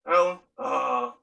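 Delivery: low, slow, raspy drawl on the name with a hesitant uh; imitating his stepdad calling his name in a deep raspy voice; stepdad's deep raspy voice. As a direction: do the stepdad, deep and gravelly, dragging out the uh. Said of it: "this is how he talks".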